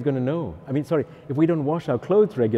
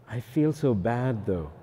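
slow, mildly mock-mournful moping; lightly acted guilt, dragged out; whiny penitent; 5 dB quieter, slower than usual. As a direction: mope to the priest, slowly. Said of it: "do not confess your feelings".

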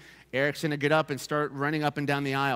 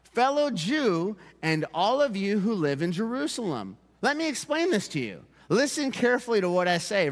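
higher, measured proclamation to a crowd; raised-voice address; 4 semitones higher than usual. Acted. Peter standing up to address the crowd, raised voice. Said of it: "raise his voice, and address the crowd".

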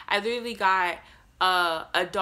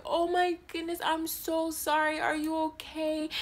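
flustered apology; 9 semitones higher than usual. Retold or imitated. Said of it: "and I'm like".

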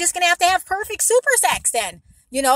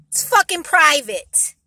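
slow, louder, pressed repeat; firm repeated anger; 5 dB louder, slower than usual. Real, not acted. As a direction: lean on fucking. Repeating the angry point.

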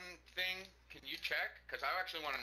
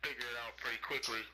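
smarmy boss voice; 5 semitones lower than usual. Pretend. Mock boss giving orders.

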